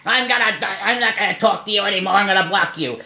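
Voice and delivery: high, loud mocking whine; hammed-up impression of a petulant guy; mocking Hussey. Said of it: "And he says".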